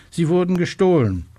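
high, alarmed exclamation falling at the end; agitated report. A narrator's reading. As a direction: break the bad news in agitation. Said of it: "ein aufgeregter Schrei". (aufgeregter, hoher Ausruf)

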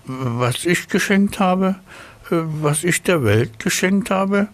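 high, self-important snail. Acted. Snail answers the rosebush.

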